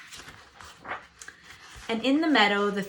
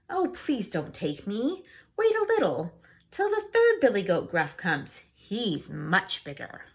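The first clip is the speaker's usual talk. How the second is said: pleading goat. Acted.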